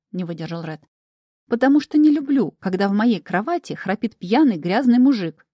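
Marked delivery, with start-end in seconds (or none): 1.5-5.5 indignant. A narrator's reading. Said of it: "пояснила я".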